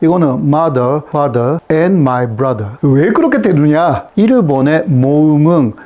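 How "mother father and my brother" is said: put-on Japanese accent. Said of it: "조금 유명해진 현상".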